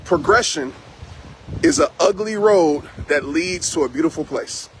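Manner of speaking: calm, slow, deliberate quote delivery. Shown as a demonstration. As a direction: let each word land calmly for them to write down. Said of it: "I'm gonna say it calmly and slowly".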